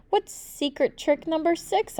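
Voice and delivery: put-on high, slow, wide-eyed child; eager kid voice. A narrator's reading. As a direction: ask it like an eager little kid. Child asks sleeping uncle.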